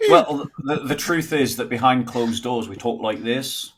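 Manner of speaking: slow rustic drawl; farmer accent. Retold or imitated. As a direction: talk like a farmer. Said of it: "talk like farmers".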